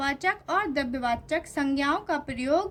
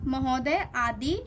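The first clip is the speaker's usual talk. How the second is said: महोदय said slowly, each syllable spaced; slow teacher's reading of महोदय; slow, careful reading. Shown as a demonstration. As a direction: read महोदय out slowly for the class. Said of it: "अद्रार्थ शब्द".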